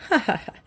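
a mild, sneering fake laugh; nasty laugh. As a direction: laugh at her scornfully. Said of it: "She gave a nasty laugh".

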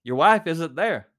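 loud and slow, spelling it out; loud, slow insistence. Retold or imitated. Patrolman telling the husband over the phone, loud and slow. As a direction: press each word loudly and slowly. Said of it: "the patrolman said loudly into the phone".

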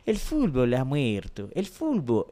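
slow Argentine commentator drawing out "fútbol" as "fulbol". Retold or imitated. Imitating Argentine commentators on a podcast, slow and solemn. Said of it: "comentaristas de Argentina".

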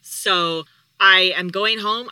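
mock-yelling that she's going home; retold yell. Wife snapping at her husband on the phone, a retold yell. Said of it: "I'm, like, yelling at him and in tears".

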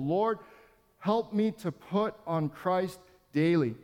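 slow repeated prayer, "help" leaned on. Acted. Pastor repeating the prayer for the church to echo, slow and prayerful. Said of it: "Repeat this prayer".

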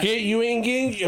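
high, indignant mock mom; outraged Mexican Catholic mom. Mom hearing he wants a tattoo, high indignant mock scold. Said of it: "just imagine a Mexican Catholic mom".

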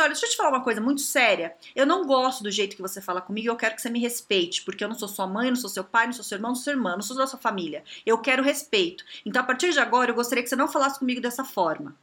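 firm boundary-setting, quick and controlled; serious, not scolding. Acted. Coach modelling a reply to a rude colleague, firm and serious. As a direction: stand your ground without picking a fight. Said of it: "Falou num tom, ok, você não brigou".

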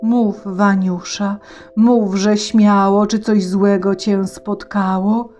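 concerned horse voice. Acted. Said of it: "zatroskanym głosem spytał".

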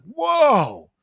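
high, loud astonished whoa; stunned whoa. Retold or imitated. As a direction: blurt it out, amazed. Friends stunned, Samus is female.

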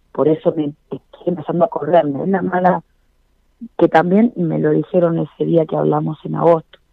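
boomy close-mic sound; speaking right into the mic; too close to mic. Real, not acted. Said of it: "así no se escucha tan grave".

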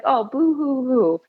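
mock sobbing boo hoo; fake crying. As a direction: pretend whimper, hammed up. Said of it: "It's like".

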